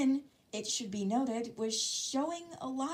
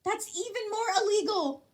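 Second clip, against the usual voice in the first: crying out; 12 semitones higher, 6 dB louder than usual. A narrator's reading. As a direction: plead it out like panicking. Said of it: "Araka cried".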